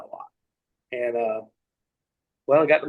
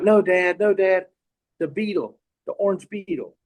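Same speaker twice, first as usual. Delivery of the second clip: lightly voiced pleading little girl, higher; imitated insistent niece; 4 semitones higher than usual. Young niece tugging on her dad, mock insistence. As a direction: imitate a child pressing Dad.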